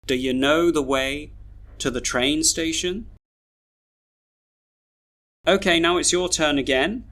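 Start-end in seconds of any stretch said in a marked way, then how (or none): 0.1-3.1 "Do you" reduced to duh-yuh, "to the" to tuh-thuh; schwa weak forms. Shown as a demonstration. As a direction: weaken "to the", rise on "station". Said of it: "read all these sentences with their schwas".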